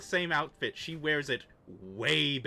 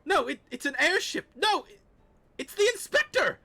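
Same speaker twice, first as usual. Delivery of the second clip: high excited shout; 14 semitones higher, 6 dB louder than usual. Acted. NPC excited sighting call.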